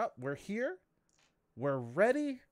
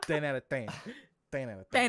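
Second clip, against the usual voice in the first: laughing; 4 dB louder, faster than usual. Real, not acted. Echoing rating, laughing.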